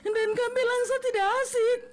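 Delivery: steady, wounded confrontation; hurt speech. Acted. Bullied Nola confronting coworkers, steady wounded voice. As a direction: calmly call them out.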